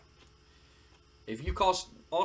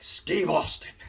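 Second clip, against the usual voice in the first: loud, acted burst of exasperation; exasperated outburst; 2 semitones higher, 7 dB louder, slower than usual. Boss telling the wrestler who his problem is, exasperated outburst. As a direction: blurt the name out loudly.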